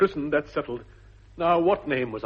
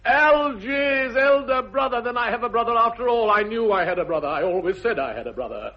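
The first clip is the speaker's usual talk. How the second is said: delighted astonishment; 9 semitones higher, 7 dB louder than usual. Acted. Jack learning Algy is his brother, elated then settling. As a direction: burst with joyful disbelief, then calm down.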